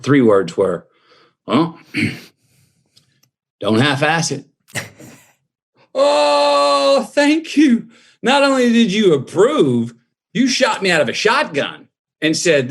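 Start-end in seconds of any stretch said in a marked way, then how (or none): 1.5-4.5 dad's voice. Retold or imitated. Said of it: "Then I hear this voice". 5.9-11.9 much higher, thrilled exclaim; overjoyed gratitude, voice leaping up; elated. Retold or imitated. Overjoyed reaction to dad's approval.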